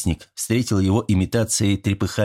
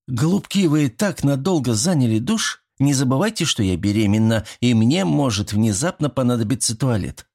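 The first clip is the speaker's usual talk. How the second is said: a touch higher, mock-scolding woman's voice; teasing female neighbour; 4 semitones higher than usual. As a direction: playfully chide the lovebirds. Pregnant neighbour teases the couple. (лёгкий шутливый упрёк соседки)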